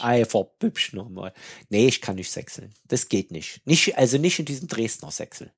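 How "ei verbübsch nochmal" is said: slow Saxon Ei, verbübsch nochmal; Saxon exclamation. Shown as a demonstration. Echoing the Saxon phrase, slowly. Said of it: "Ich will den Unterschied".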